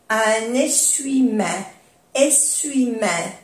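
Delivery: essuie-main said slowly, the E silent: eswimɛ; slow French essuie-main without the E; French pronunciation. Shown as a demonstration. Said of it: "no se pronuncia la E". (essuie-main lento, sin pronunciar la E)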